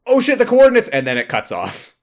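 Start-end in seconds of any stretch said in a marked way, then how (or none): 0.1-0.9 sudden high panicked yelp; panicked cry. Acted. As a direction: blurt it out in panic. Panicked recorded message.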